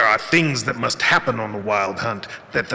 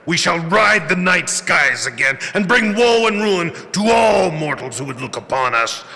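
booming ancient lord; grand villain proclamation; 3 semitones higher than usual. Acted. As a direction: declaim it to the heavens. Villain declaims.

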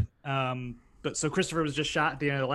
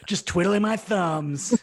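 laughing; 3 semitones higher, 5 dB louder, much slower than usual. Real, not acted. Laughing joke.

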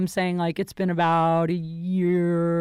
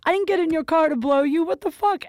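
retold anger; 5 semitones higher than usual. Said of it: "I was so pissed".

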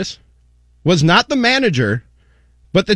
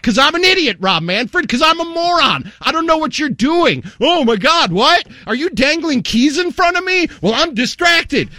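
higher, sarcastic playing dumb; sarcastic mock idiot; 6 semitones higher than usual. Host mocking Rob Manfred, playing the fool sarcastically. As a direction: sneer it, pretending to be fooled.

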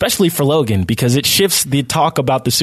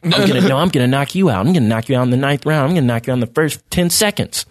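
cocky breathless boxer boasts. Retold or imitated. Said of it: "They're all like".

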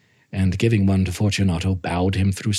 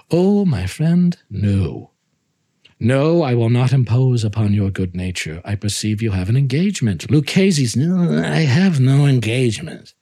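feigned reluctance; 3 semitones higher than usual. Acted. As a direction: fake concern to hook him.

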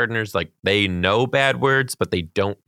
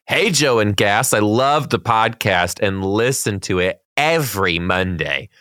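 slow, measured read-aloud voice; reading a letter aloud. A narrator's reading. Podcast host reading a teacher's fan letter, slow read-aloud. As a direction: read it out deliberately, stretching the key words.

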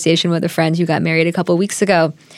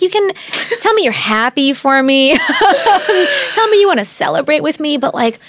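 high, laughing disbelief; pushing back in disbelief; incredulous; 4 semitones higher than usual. Retold or imitated. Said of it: "she was like".

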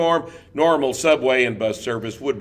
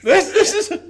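laughing; 4 dB louder than usual. Real, not acted. Mocking reviewers, laughing.

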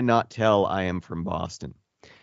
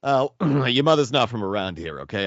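a touch of a Boston tough guy; Boston accent; 4 semitones higher than usual. Acted. Host slips into Boston accent teasing co-host's mother, light Boston accent. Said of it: "I'll break the accent out".

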